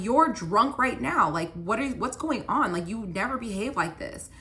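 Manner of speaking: getting mad. Retold or imitated. Girlfriend confronts drunk ex as the fight escalates, retold anger. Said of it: "now I'm getting mad".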